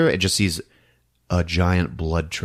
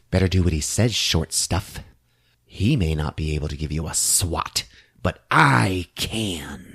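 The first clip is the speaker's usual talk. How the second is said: mock threat; 2 semitones lower than usual.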